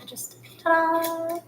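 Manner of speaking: slow, drawn-out triumphant ta-da; ta-da reveal. Real, not acted. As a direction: present it like a magic trick. Jar finally opens, showing off.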